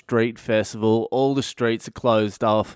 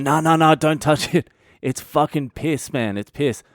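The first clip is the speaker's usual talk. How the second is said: frantic mates yelling a warning; panicked warning; 4 semitones higher than usual. Retold or imitated. Mates warning not to touch.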